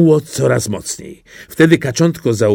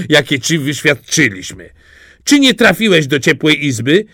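loud, higher, preachy hen; the hen talking down to the duckling; hen's louder, higher sermon; lecturing hen; 3 semitones higher, 3 dB louder than usual. Acted.

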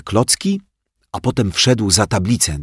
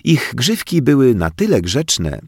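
ordinary delivery

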